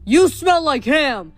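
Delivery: drawn-out whinnied taunt; whinnying horse. A narrator's reading. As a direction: jeer loudly like a whinnying horse. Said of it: "Blackjack whinnied".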